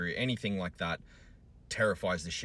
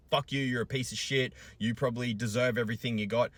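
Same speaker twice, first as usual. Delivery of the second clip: higher sneering mimic of hostile commenters; mocking commenters; 4 semitones higher than usual. Father mimicking hostile women in his comments, sneering. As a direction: throw their insults back with scorn. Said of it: "females that came into those comments going".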